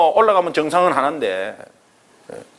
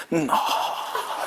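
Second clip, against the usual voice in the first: compressed trembling breath; 9 dB quieter, much slower than usual. Shown as a demonstration. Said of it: "바라라 떨면서 압축하는 거예요".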